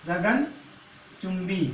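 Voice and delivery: गगनचुंबी drawn out very slowly, syllable by syllable; teacher repeating गगनचुंबी very slowly; slow for students. Shown as a demonstration. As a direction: spell out गगनचुंबी slowly so the class can follow. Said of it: "अगला शब्द क्या लेते हैं?".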